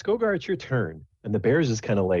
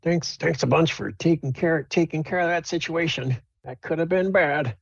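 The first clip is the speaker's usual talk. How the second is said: put-on higher old woman's voice; the dwarven woman thanking the party, higher and old; grateful old woman; 10 semitones higher than usual. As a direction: thank them like a frail old lady. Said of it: "and she says".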